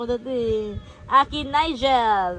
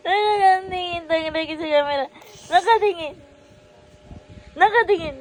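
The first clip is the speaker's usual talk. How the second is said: laughing coo; 5 semitones higher, faster than usual. Real, not acted. Mother laughing at her staring baby, amused.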